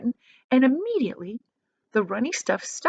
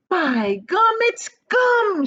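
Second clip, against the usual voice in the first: much higher, louder shriek of discovery; excited shriek; 13 semitones higher, 5 dB louder, much slower than usual. A narrator's reading. Violet recognising the gum, shrieking with excitement. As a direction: squeal it out in delight. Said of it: "she shrieked".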